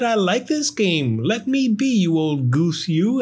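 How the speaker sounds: high, teasing brush-off; playful sass; cheeky firefly. Acted. Gus cheeky dismissal.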